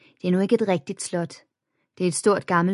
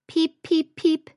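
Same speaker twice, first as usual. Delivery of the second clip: giggling; 10 semitones higher than usual. A narrator's reading. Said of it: "fnisede Emilie".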